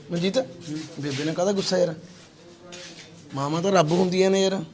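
softly reasoning; gentle coaxing. Real, not acted. Helper reasoning with a man about his mother, gentle. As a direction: drop the volume and coax him kindly.

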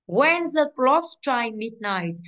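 "When the clock strike midnight" read very slowly; slow dictation. Shown as a demonstration. Teacher reading the exercise sentence aloud to students, very slowly. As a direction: drag each word out for the class. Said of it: "teacher reading the sentence aloud".

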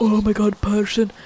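loud mock excitement at spotting someone; excited zombies. Zombies spot a person to run at, mock excitement. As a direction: call it out like a thrilled zombie. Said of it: "all the zombies are like".

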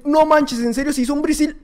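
high, amazed viewer reaction; imitating a stunned viewer. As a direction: squeal it like a stunned fan. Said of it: "la que dicen".

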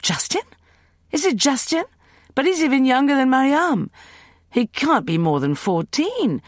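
high, loud cry of dismay; distressed cry. Acted. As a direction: cry out in alarm. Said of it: "Leah let out a cry".

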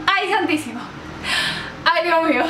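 high, exclaimed plea to heaven; dramatized "oh my God" panic; mock alarm. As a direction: gasp it out in acted dread. Acts out alarm when followed.

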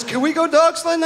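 put-on high-pitched eager kid voice; excited son. Son asking dad to go dog sledding, high-pitched excited kid. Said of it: "my son said".

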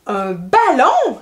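drawn-out delighted-discovery exclamation; little girl's exclamation. Acted. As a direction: exclaim as a child spotting a ball. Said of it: "s'exclama la petite Alicia".

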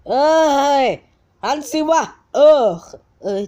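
annoyed yell. Real, not acted. Yelling at camera to turn.

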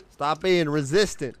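put-on slipping into a southern accent; casual southern accent, half unintended. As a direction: let a light southern accent come out. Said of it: "pulling off a southern accent".

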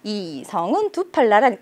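ordinary delivery

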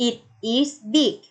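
slow, word-by-word reading; slow model reading. Shown as a demonstration. Teacher modelling slowly for pupils to repeat. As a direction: read it slowly for the class. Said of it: "Say after me".

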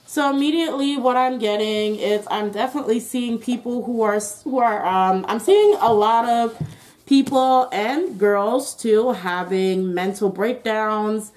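talking through a face mask; muffled, mask over mouth. Real, not acted. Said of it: "I have a mask on, that's why I sound muffled".

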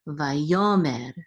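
Vayomer with a drawn-out, stressed "yo"; accent the "yo" in Vayomer; stress on second syllable. Shown as a demonstration. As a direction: lean on the middle syllable of Vayomer. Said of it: "accent is on this second syllable".

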